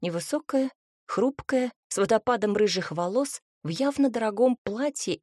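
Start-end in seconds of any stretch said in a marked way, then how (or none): none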